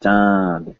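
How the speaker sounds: "chand" without an n before d; N left out. Shown as a demonstration. Teacher trying the hard-to-say version, N left out. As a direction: say "chand" with the vowel straight into d. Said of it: "No, that's hard to say".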